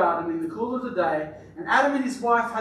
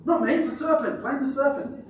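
higher-pitched mock protest; blame-shifting; 6 semitones higher than usual. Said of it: "The blame game".

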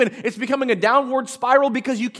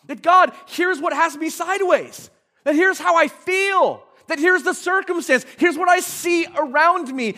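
honest prayer to God; 4 semitones higher than usual. Pretend. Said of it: "do you invite God in first?".

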